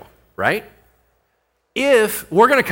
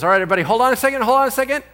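Paul calling out; 11 semitones higher, 7 dB louder, much faster than usual. Acted. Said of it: "Paul says".

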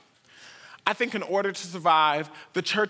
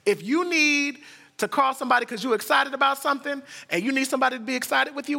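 ordinary delivery

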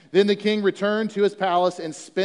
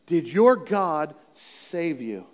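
slow repeat; 4 semitones lower, much slower than usual. Shown as a demonstration. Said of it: "here Darius is waking up".

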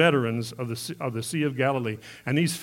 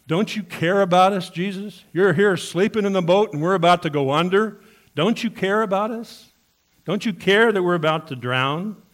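louder, higher pleading shout at the sleeping master; desperate disciples' cry; 6 semitones higher, 7 dB louder than usual. Retold or imitated. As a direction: cry out in panic as the boat sinks. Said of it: "They said".

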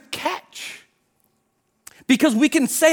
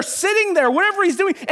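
normal talking voice

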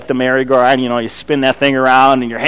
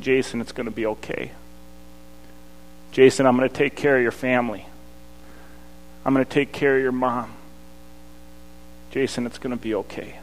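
gentle reassuring voice; 8 dB quieter than usual. Retold or imitated. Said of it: "hearing a very distinct voice in the quiet of my own mind".

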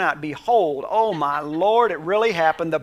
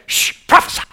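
whispered shh then prophesy; God shushing the complaining prophet; hushed divine command; 8 dB louder than usual. Acted. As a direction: hush him and command. God hushing Ezekiel.

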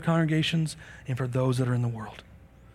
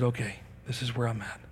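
softer, lower, giving in after crying; a brother broken down, much softer and lower; tearful surrender; 5 semitones lower, 10 dB quieter than usual. Retold or imitated. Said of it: "his brother began to cry".

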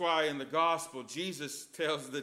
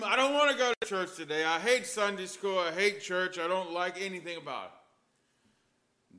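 put-on child whining. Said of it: "he was yelling from his room".

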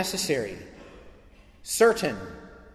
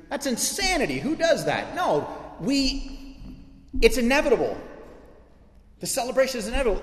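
fired-up preaching; 7 semitones higher than usual. Real, not acted. Preacher to congregation about forgiveness, excited shout. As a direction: shout it out like you can't contain it.

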